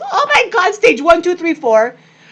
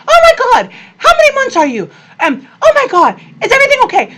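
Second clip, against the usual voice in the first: high, loud, laughing-crying joy; overjoyed outburst; 8 dB louder, much faster than usual. Retold or imitated. Mom hearing her daughter is pregnant, overjoyed. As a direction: burst out with joy at the news.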